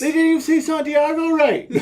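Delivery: laughing loudly while talking. Real, not acted. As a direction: crack up mid-sentence. Laughing at the dubbed soap.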